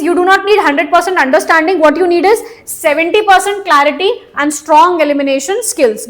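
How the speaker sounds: slow, deliberate advice, word by word; slow emphasis. Shown as a demonstration. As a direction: spell the tip out slowly. Stresses key advice slowly. (धीमे और ज़ोर देकर)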